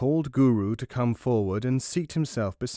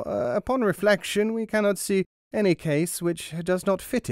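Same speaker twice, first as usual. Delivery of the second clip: hesitant courtier; 5 semitones higher than usual. Acted. Ministers counsel the king.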